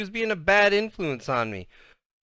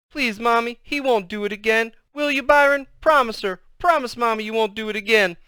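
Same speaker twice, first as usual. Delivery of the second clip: high-pitched little sister begging; frantic, tearful appeal to mother; sobby pleading; 8 semitones higher, 4 dB louder than usual. A narrator's reading. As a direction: beg urgently like a tearful child. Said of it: "starting to get all sobby".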